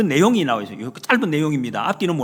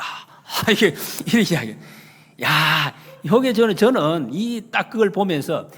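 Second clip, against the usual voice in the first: ordinary talk, nothing marked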